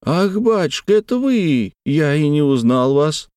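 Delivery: high, surprised cry of recognition; sudden exclamation. A narrator's reading. Servant suddenly recognizes his master's old friend, exclaiming high. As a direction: gasp it out, suddenly recognizing him. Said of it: "вдруг воскликнул".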